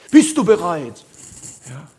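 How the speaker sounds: loud, booming challenge to the crowd; hammed-up alarm preacher shouting the question; mock doomsday call. Preacher mocking an end-times sermon, booming loud.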